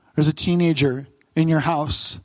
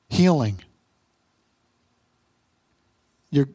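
pastoral prayer; 2 semitones lower than usual. Acted. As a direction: pray over them, earnest and gentle. Leads closing prayer.

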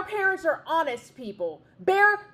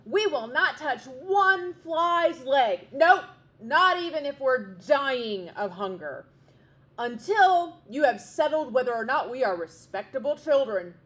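angry chicks; 4 semitones higher, 6 dB louder than usual. A narrator's reading. Young wrens refusing food from parents, loud indignant. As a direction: refuse the food in a furious sulk. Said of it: "they were very angry".

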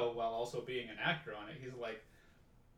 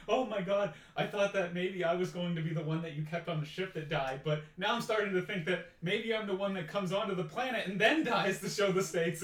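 imitating an anxious actor, pitched up; mildly freaking out; 4 semitones higher than usual. Actor fears he will die on the mission, mildly freaking out. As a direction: voice rising worry, lightly acted. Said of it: "he's, like, freaking out".

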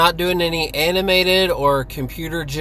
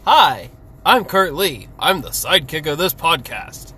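anime voice. Acted. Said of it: "it's my anime voice".

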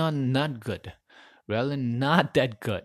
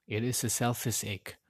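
softer, dropped repeat of the admission; quiet repeat; 5 dB quieter than usual. Real, not acted. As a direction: murmur it again to yourself. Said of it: "I'm being honest".

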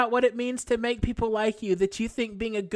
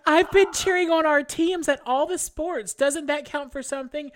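whiny voice; 3 semitones higher than usual. Pretend. Reading the email, she mocks a whining sister in a mild whiny voice. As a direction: whine it like a spoiled sorority girl. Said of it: "in a whiny little bitch voice".

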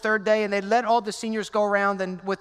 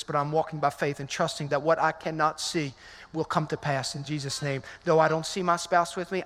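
lower, steady spoken prayer to God; earnest prayer; 3 semitones lower than usual. Acted. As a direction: pray it out for the congregation, sinking lower. Pastor voices a prayer.

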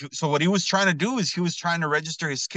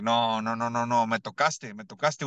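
put-on Cuban accent; 4 semitones lower than usual. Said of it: "with a Cuban accent".

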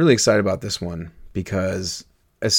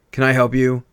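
snooty; 3 semitones higher, 7 dB louder than usual. Acted. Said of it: "came a small, snooty voice".

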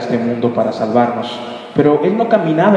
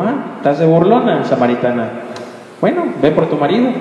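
confronting. Acted. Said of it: "para confrontarla".

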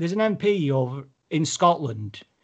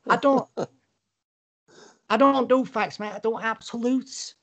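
high-pitched caricature Scouser; Liverpool accent; 7 semitones higher than usual. Acted. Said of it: "that's Liverpool".

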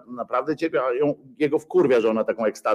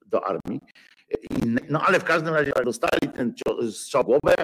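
usual speaking voice

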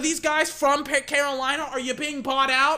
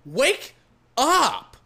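shouted wake up; 2 semitones higher, 4 dB louder than usual. Real, not acted. Yelling at ref again.

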